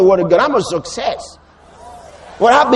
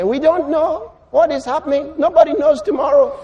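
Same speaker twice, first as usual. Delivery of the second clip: higher mimicked voice of doubt; mock uncertainty; 3 semitones higher than usual. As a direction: imitate someone resigned to not knowing. Mimics an uncertain person's answer.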